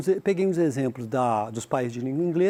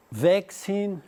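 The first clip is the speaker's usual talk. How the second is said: Vaccine stressed on the first syllable, "VACcine"; British vaccine; 3 semitones higher than usual. Shown as a demonstration. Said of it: "acento da palavra".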